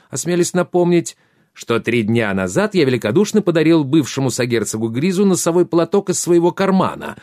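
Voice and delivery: roaring king. A narrator's reading. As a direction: roar it like a furious king. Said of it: "проревел король".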